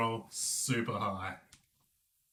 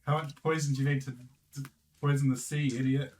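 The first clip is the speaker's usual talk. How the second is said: mild in-character yell, rapid; half-yelled heckle, quick and scornful. Acted. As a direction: call it out fast, not full volume. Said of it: "I'd yell out".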